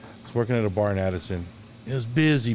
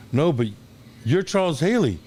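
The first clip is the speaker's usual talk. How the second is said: pitched up high, excited disbelief at spotting a hero; starstruck recognition; 7 semitones higher, 3 dB louder than usual. Retold or imitated. Fan spotting his football idol in a car, excited and high. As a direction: blurt it out, star-struck.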